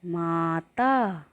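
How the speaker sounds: "माता" drawn out slowly, long a held; slow clear word. Shown as a demonstration. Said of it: "शब्द बनता है". ("माता" को बहुत धीरे, आ खींचकर बोलना)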